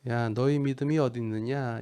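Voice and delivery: mildly sarcastic rhetorical question; mock sarcasm. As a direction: say it with a touch of scorn. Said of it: "비꼬면서 얘기하셨을까요?". (살짝 비꼬는 투로)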